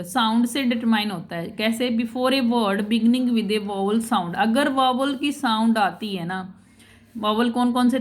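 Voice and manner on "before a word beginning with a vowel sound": slow, careful textbook reading; reading the rule aloud. Shown as a demonstration. Teacher to class, reading the grammar rule slowly. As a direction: read each word of the rule out slowly.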